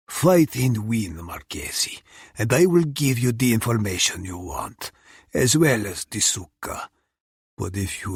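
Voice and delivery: a hint of a Russian mob boss; menacing Russian boss. Oleg sets deadly terms.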